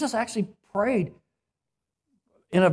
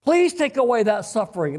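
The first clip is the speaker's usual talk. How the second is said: passionate pleading; 2 semitones higher than usual. Pretend. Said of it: "pray like that".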